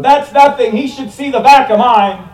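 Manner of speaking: high, loud shouted retort; shouted punchline. Retold or imitated. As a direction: yell it from the back of the plane. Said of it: "a passenger in the coach shouted".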